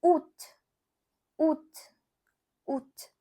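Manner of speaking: août as short French "oot"; French pronunciation. Shown as a demonstration. Teacher showing learners August in French, short French août. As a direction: repeat août briefly, with long pauses. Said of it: "You can say".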